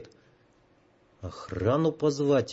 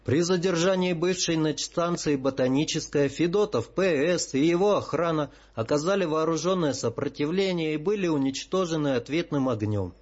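fake regretful report; 3 semitones higher than usual. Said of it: "не очень правдоподобно изобразив сожаление, отрапортовал".

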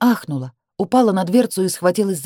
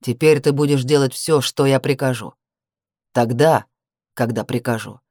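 low cold command; 5 semitones lower than usual. A narrator's reading. Brother orders sister.

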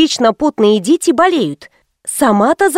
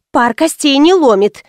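ordinary delivery, nothing marked

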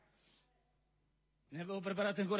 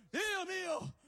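scornful outburst; 8 semitones higher, slower than usual. Acted.

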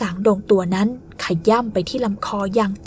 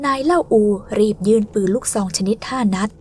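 plain reading voice

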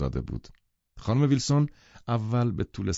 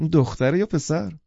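higher-pitched careful question; delicate inquiry; 7 semitones higher, 3 dB louder than usual. Acted. Woman asking the seller the puppy's sex, delicate. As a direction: ask it with tactful interest. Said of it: "با نکته سنجی پرسید".

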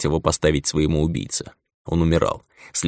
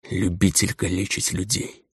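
muffled whisper; 6 dB quieter than usual. Acted. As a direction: breathe it out dully, barely voiced. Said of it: "прошептал глухо калека". (глухой шёпот)

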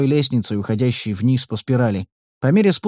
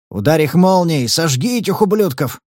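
shouting; 4 semitones higher than usual. Acted. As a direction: bark it to scare the guards. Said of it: "крикнул я в ответ".

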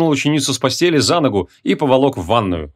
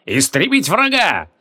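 higher, drawn-out war cry; mock-heroic slow call; battle cry; 6 semitones higher, slower than usual. A narrator's reading. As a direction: stretch the command out like a war cry. Mock battle cry in water fight.

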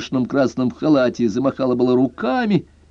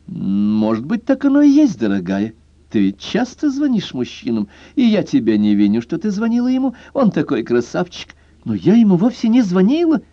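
high, sing-song teasing; teasing girlish voice; 8 semitones higher than usual. A narrator's reading. Girlfriend teasing her tipsy friend, high and sing-song. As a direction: tease your friend playfully.

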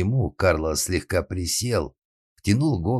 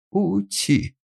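very high, sugary "Ути!"; cooing baby talk. A narrator's reading. Lady cooing at Pinocchio, high baby talk. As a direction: coo at him like at a baby. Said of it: "засюсюкала дама".

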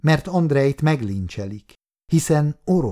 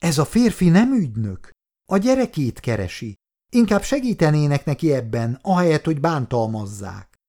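insistent plea; 4 semitones higher than usual. Acted. Nurse insists to officer.

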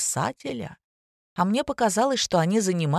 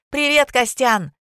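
loud slangy greeting; 7 semitones higher, 6 dB louder, slower than usual. Acted.

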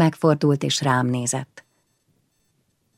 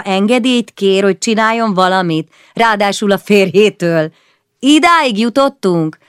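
much higher, louder incredulous question; mock outrage; 5 semitones higher, 5 dB louder than usual. Péter mocking Bora for asking permission, high mock outrage. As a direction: sound scandalised at the idea. Bora mocks her own request.

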